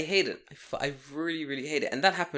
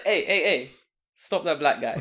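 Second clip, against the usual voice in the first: mock a busybody pointing at the black guy; mock nosy neighbour; 4 dB louder than usual. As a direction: neighbour snitching to the police, mock outraged. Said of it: "Timothy's like".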